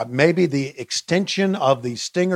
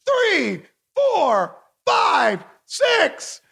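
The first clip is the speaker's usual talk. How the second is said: counting up, far higher, thrilled; excited count; much slower than usual. Real, not acted. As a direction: count along like a frenzied ringside announcer. Counting along with the match finish.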